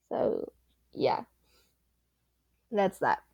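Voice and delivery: breathy whispered aside. Real, not acted. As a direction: whisper it to yourself. Trailing off to self.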